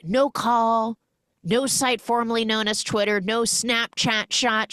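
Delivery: high, lightly mocked Serbian accent. Serbian mother listing the ways daughter ignored her, accent. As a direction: list the apps like a fussy Serbian mom. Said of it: "broken English slash Serbian accent".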